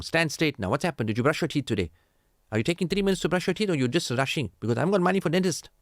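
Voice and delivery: rising, hurried nagging parent; fussing at the kid about teeth; strict parent scolding. Retold or imitated. Father nagging his child about brushing teeth, fussy scolding.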